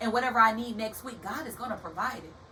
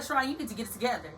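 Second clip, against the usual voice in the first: firm self-scolding that builds louder to a near shout on Focus; self pep talk; 5 dB louder than usual. Retold or imitated. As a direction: push yourself to focus, getting louder. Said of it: "I'm like".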